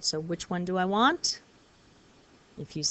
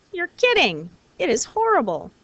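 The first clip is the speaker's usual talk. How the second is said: mock disgust; 6 semitones higher, 4 dB louder than usual. Shown as a demonstration. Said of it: "It's used for emphasis".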